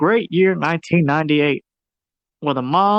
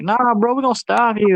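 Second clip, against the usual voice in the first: put-on defiant kids; 6 semitones higher than usual. Kids defy villain.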